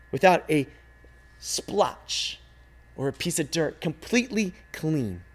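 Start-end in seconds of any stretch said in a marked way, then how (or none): none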